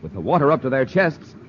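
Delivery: steady dramatic recap; narrator recap. A narrator's reading. Announcer recapping the cliffhanger, steady and dramatic. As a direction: set the scene for the listeners.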